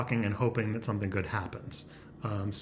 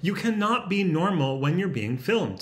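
higher, wound-up voice; self-conscious, higher-pitched outburst; odd strained voice; 5 semitones higher than usual. Real, not acted. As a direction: let nerves push the pitch up. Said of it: "why is my voice like that".

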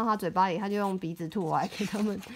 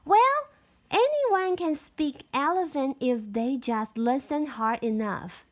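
put-on little girl voice; 3 semitones higher than usual. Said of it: "said Marigold".

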